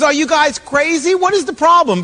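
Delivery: exasperated disbelief. Acted. David to the frightened soldiers, acted exasperation. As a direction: demand an answer, lightly exasperated.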